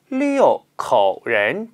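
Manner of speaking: 六口人 with a slow, clear falling 六; stress on 六. Shown as a demonstration. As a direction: hit 六 hard and let it fall. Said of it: "중요합니다".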